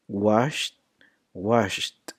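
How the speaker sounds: "washed" ending in T, washt; one syllable "washed" with a final T. Shown as a demonstration. Teacher giving an example of the T sound, "washed" as washt. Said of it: "a T, a T sound".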